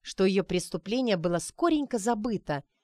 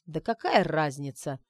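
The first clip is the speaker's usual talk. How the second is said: хмуро; 3 semitones lower than usual. Acted. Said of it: "хмуро отмахнулся тот".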